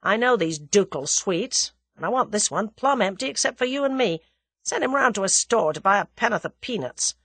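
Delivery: free and easy American talk; lightly voiced, informal American visitor; brash American. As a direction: play the American laying down terms breezily.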